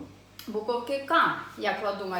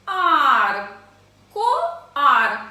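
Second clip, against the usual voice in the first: loud, higher, drawn-out syllables with gaps; 4 semitones higher, 11 dB louder than usual. Shown as a demonstration. Teacher reading along with children, loud separated syllables. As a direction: sound out "Ко" and "ар" separately. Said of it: "і читаємо разом зі мною".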